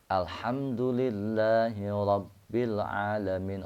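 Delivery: "Alhamdulillahi" with a light small h, not a heavy one. Shown as a demonstration. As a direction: recite with the light ha. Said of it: "haknya di situ hak kecil".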